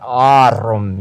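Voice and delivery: "arum" with a long first vowel and trilled r; extended, trilled. Shown as a demonstration. Teacher showing the plural ending, "arum" extended and trilled. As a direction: exaggerate "arum", drawing it out. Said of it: "extend it out and trill it".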